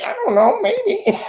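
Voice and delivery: hammed-up Spanish-accented shrug; mock broken English. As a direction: repeat it in mock Hispanic English, breaking into laughter. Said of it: "You will speak in that broken English".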